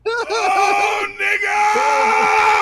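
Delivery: high, long, full-out yell; drawn-out high holler, played for laughs; mock morning scream. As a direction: scream it out loud, stretching each word. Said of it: "wake up and scream".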